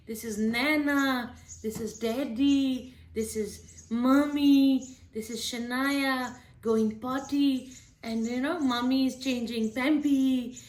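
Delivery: put-on slow, drawn-out baby talk; name each picture slowly for a little one; mother showing her daughter the family in a picture book in baby voice. Shown as a demonstration. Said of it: "talk to your babies in baby voice".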